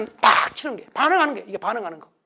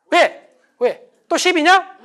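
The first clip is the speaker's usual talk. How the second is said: higher, louder, picking a fight back; defensive snap; 7 semitones higher, 5 dB louder, much slower than usual. Retold or imitated. Husband snapping back at wife, louder and higher. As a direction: bark it back instantly. Acted defensive spouse quarrel.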